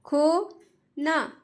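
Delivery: "खोना" stretched very slowly, falling; slow drawn-out word. Shown as a demonstration. Teacher reads "खोना" slowly for children to copy. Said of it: "जिस तरीके से मैं पढ़ रही हूँ".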